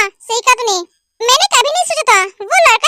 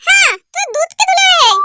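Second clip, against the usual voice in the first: sarcastic shout; 4 semitones higher than usual. Acted. Sister-in-law mocks the younger brother.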